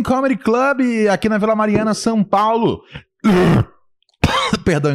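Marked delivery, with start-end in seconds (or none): 3.2-4.9 coughing after swallowing water wrong; choked on water, cough through it; choking on a drink. Real, not acted. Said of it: "engasguei com a água".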